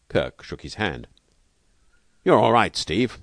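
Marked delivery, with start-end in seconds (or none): 2.2-3.2 a touch of huskiness, moved; husky. A narrator's reading. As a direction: say it with understated, husky gratitude. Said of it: "he said huskily".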